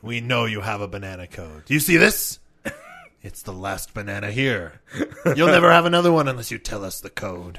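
loud menacing mock threat; bad cop voice.

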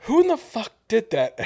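high, loud repeated yell; yelling again. Retold or imitated. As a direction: shout the question across the kitchen. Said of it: "I'm, like, yelling this in the kitchen".

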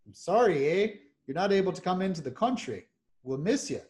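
a hint of a polite Canadian border Mountie accent. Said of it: "It's probably a terrible Canadian accent".

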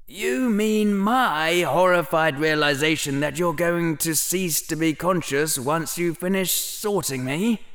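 a hint of an anxious boy; young boy voice. Harry voiced.

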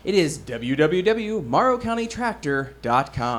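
big, booming announcer read; radio announcer voice. Acted. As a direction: sell the web address like a radio announcer. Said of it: "That's my radio announcer voice".

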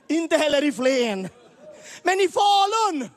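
rising to a laughing shout; comic build to a shout. Real, not acted. Teasing the crowd about towns, shouting the punchline. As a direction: climb until Falun bursts out.

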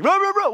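loud, high barking noises; imitated dog barking. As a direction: bark like a dog that hasn't thought it through. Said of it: "He's just like".

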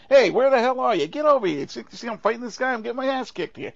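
loud, high Bronx tough guy yelling for help; a hammed-up Bronx wiseguy calling out to his buddy. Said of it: "right out of the Bronx".

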